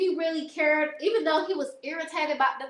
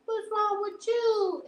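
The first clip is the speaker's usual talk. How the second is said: higher, slow mock mom asking; imitating mom; 9 semitones higher, slower than usual. Mom asking her crying child, higher and slow. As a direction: play mom, pitched up, slow and puzzled. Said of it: "My mom was like".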